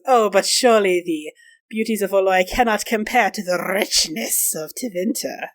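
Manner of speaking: smarmy noble's flattery, slowing into the last words; insinuating, mannered compliment; leering flattery. Acted. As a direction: lay on the flattery, drawing out the end.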